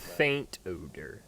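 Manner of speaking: "Faint" stretched out slowly; stress on Faint. Real, not acted. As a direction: draw out "Faint" to underline it. GM stresses the rule's wording.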